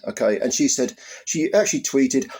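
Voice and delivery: ordinary delivery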